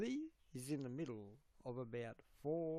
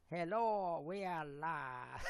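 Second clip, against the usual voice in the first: impersonation; 2 semitones higher, slower than usual. Retold or imitated. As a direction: impersonate a host's slow live greeting. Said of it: "I'll do an impersonation for you".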